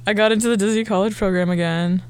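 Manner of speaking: muffled behind a hand. Real, not acted. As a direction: hand over mouth. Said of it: "you're muffled again".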